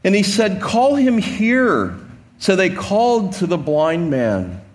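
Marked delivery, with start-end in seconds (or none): 0.6-2.0 slow, commanding call; a slow summons across the crowd; Jesus calling out. Acted. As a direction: call out slowly with authority.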